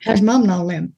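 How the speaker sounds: Alabama accent, whole sentence slurred into one word; run-together Alabama accent. Shown as a demonstration. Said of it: "run it all together".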